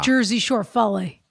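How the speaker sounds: Philly and Jersey Shore local vowels; Philadelphia accent. Shown as a demonstration. Host shows off her accent to co-host, Philadelphia accent. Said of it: "I like to do accents".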